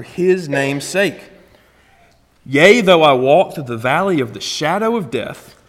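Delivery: solemn, unhurried psalm recitation; scripture reading. Acted. Reads Psalm 23 aloud.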